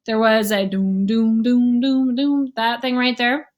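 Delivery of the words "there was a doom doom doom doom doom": doom doom plucked-bass imitation; hummed bass notes; imitating bass. Shown as a demonstration. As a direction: mimic the upright bass line. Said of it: "you heard behind the trumpet sound".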